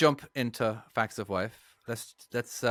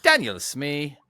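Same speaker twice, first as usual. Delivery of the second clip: mock Russian accent; 5 semitones higher, 6 dB louder, slower than usual. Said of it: "we've started going part Russian".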